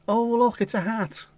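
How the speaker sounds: cheesy cabaret act; club entertainer voice. Retold or imitated. Mimicking the paper tearer's patter.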